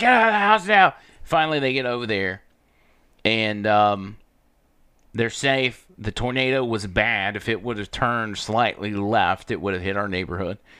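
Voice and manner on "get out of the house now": very high, loud, urgent, raised yell. Retelling an order to leave the house during a tornado: retelling a yell. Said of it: "I start yelling at her".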